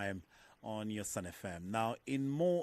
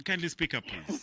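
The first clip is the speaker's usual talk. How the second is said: loud and much higher, calling down the line; to someone hard of hearing; 7 semitones higher, 5 dB louder than usual. Real, not acted. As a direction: raise your voice so the caller hears. Caller too quiet on phone.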